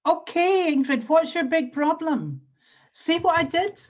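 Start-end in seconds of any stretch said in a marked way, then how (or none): 0.1-2.4 higher and louder, echoing her worry; matching her tone. Shown as a demonstration. Coach matching Ingrid's tone to show rapport. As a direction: mirror the client's heightened tone. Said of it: "I matched Ingrid's tone".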